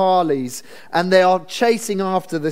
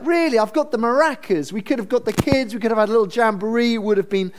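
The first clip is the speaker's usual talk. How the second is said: high, gushing mock enthusiasm; a sly uncle overselling the party; mock gushing Laban; 4 semitones higher, faster than usual. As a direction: ham up the fake cheer, faster. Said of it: "He's like".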